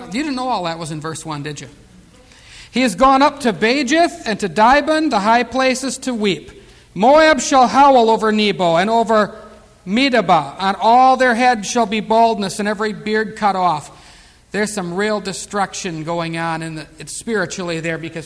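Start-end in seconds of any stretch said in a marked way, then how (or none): 2.7-13.9 solemn, full-voiced Bible reading; scripture reading. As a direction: declaim the prophet's lament.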